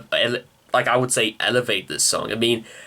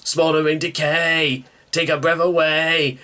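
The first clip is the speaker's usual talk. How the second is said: a singer's delivery; 4 semitones higher than usual. Retold or imitated. Reviewer imitating a singer singing the lyric, light mock vocal. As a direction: mimic the singer's phrasing, lightly. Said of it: "the way the singer goes".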